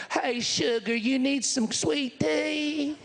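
lightly voiced sweet waitress, slow drawn-out question; a hint of a friendly Tennessee waitress offering tea; Southern waitress. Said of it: "she leans over and said".

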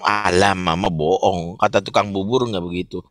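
a hint of a dismissive teen; sulky child voice. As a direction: mimic a kid brushing off mom. Child scoffing at mother.

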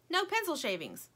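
high, insistent correction; arguing toy. A narrator's reading. Lumpy argues back about a smell, insistent. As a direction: contradict with a high, falling tune. Bickering toys contradict each other.

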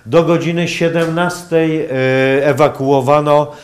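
ordinary talk, nothing marked

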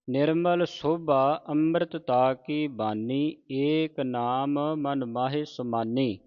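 slow, measured sacred reading; deliberate Gurbani recitation for learners; scripture recitation. Acted. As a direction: recite phrase by phrase, stretching the vowels.

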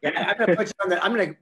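laughing through the word; chuckling yes after teasing his guest; amused laugh into yeah. Real, not acted. Laughing at pop quiz.

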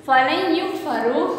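"फलै युगफरू" slowly, lam merged into the ya; idgham, joined. Shown as a demonstration. Teacher showing idgham to class three, "फलै युगफरू" run together slowly. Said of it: "लाम को हमने या के साथ मिला दिया है".

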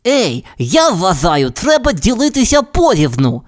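high, sure little bird voice; confident canary. Acted. Tweety insists to the cat on an equal share, confidently. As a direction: state it calmly, no room to argue. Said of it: "впевнено мовив Твіті".

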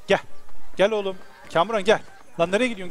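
normal talking voice

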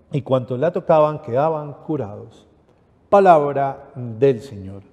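measured liturgical reading of scripture; solemn reading of the Gospel at Mass. Acted. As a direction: proclaim the passage steadily to the congregation. Reads the gospel aloud.

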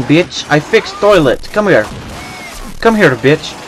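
broken English in a put-on foreign accent; mock foreign accent. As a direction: play a lazy plumber in a lightly done foreign accent. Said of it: "We continue to play game in accent".

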